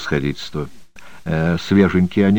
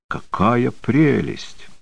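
gushing lady; 5 semitones higher, much slower than usual. Acted. Lady admires sable cape.

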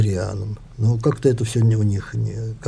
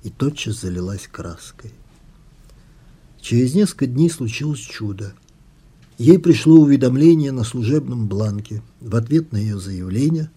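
measured, expressive literary reading; author reading. A narrator's reading. Author reads an excerpt from the book, measured story narration. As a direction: read your own novel aloud, unhurried.

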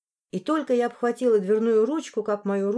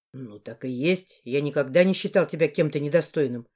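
lowered male voice; 5 semitones lower than usual. Acted. Male boss explains.

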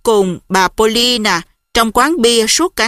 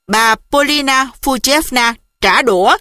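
plain reading voice

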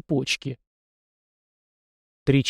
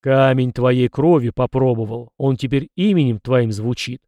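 a louder, testy old spirit, lightly voiced; grumpy ancestor spirit; 4 dB louder than usual. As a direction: lecture him like a gruff forefather.

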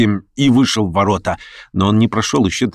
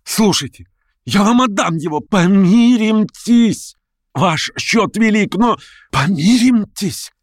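much higher, slow and begging; frantic pleading; 11 semitones higher, slower than usual. A narrator's reading. Verkhovensky begging Stavrogin to make peace, high and frantic. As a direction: plead for reconciliation.

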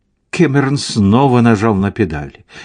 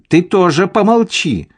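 higher-pitched motherly snap; scolding cry; 9 semitones higher than usual. A narrator's reading. Mother silencing Tom as he opens his mouth, scolding cry. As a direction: cut the son off with a mild yell. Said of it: "закричала мать".

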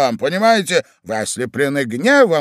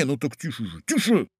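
hushed warning; 2 semitones lower, 8 dB quieter than usual. Acted. Hushing on the stairs.

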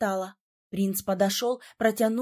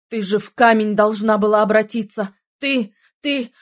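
loud, lower, furious shaking rant; furious shout; 3 semitones lower, 8 dB louder than usual. A narrator's reading. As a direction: roar at her in shock and relief. Prince shaking her, furious. (яростный громкий крик)

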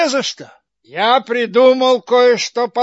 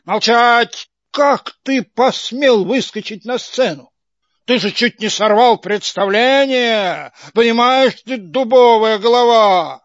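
furious booming scolding; angry yell; 3 dB louder than usual. Acted. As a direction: bellow it down at the puppet. Karabas yells at puppet.

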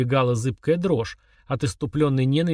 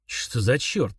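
hoarse wheeze; much slower than usual. Acted. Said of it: "просипел он".

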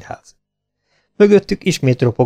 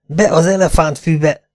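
urgent command; 6 semitones higher than usual. A narrator's reading. Urgent order while fleeing gunfire.

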